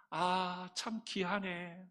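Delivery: mild admiring. Retold or imitated. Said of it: "이렇게 말해야 되는데".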